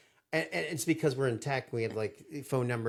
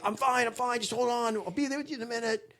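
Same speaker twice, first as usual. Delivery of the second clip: mock frantic calm; 10 semitones higher than usual. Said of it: "I'm just like".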